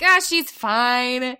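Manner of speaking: slow, brushing-off drawl; dismissive. Retold or imitated. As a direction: wave it away without a care. Dismissive mom retold.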